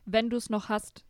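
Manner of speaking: slow clear repeat. Real, not acted. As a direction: repeat it slowly so she hears. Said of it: "Wie bitte?".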